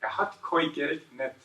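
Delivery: a light southern German dialect version; Swabian dialect. Shown as a demonstration. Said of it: "let's do a southern, southern dialect version".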